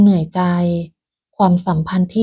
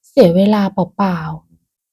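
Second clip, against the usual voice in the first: grumbling; much slower than usual. Acted. Irritated Pim passing her mother-in-law, grumbling. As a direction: complain half to herself. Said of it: "เธอบ่นพึมพำ".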